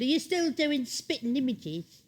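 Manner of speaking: a lightly voiced fan asking slowly; imitating a fan. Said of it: "one woman said to me".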